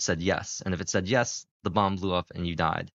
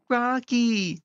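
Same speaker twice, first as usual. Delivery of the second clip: high, excited shout of the name; 3 dB louder than usual. Retold or imitated. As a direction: yell it like a movie callback. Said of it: "Date will just go".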